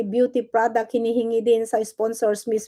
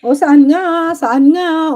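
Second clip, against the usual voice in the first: angry demand; 4 semitones higher, 8 dB louder, much slower than usual. Real, not acted. Galit na hamon sa kaaway.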